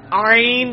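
آئین with the throaty ع from mid-throat; ain from mid-throat. Shown as a demonstration. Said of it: "ادھر ہی سے یہ آئین بھی نکلنا ہے".

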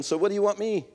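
a nasty friend's snappy comeback. Retold or imitated. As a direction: throw it back at her, mean and mocking. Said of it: "in a nasty tone".

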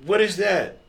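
high, loud confused what; mock bewildered squeak; surprised. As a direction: blurt it out, caught off guard. Confused reply to angry partner.

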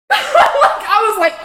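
laughing through the words; giggling as she starts the story. Real, not acted. Telling a friend about crying on the roof, laughing.

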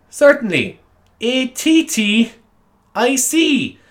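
high, obliging teacher, A T T I C drawn out; over-pronounced. Retold or imitated. Teacher respelling attic for pupils, over-pronounced. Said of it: "in such a pronounced way".

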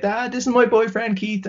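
high mock-girly voice presenting her boyfriend; drunk girl's introduction. Drunk girl introducing him to her dad, high mock voice. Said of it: "she's just like".

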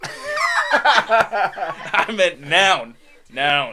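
laughing, voice cracks up high; words cracking loud and high through a laugh. Real, not acted. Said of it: "Is your voice gonna change?".

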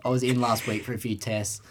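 timid, nervous caller. Retold or imitated. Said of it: "little timid me, I'm nervous as fuck".

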